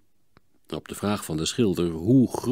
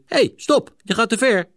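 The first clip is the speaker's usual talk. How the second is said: high, louder shout to stop; calling out; 13 semitones higher, 6 dB louder than usual. A narrator's reading. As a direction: yell a warning at his brother. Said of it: "riep Hielke". (luid roepend, veel hoger)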